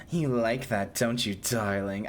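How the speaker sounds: slow, low, seductive purr; a lightly voiced Bayonetta-style temptress; teasing whisper to a fan; sultry mommy voice. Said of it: "a mommy voice, like a Bayonetta voice".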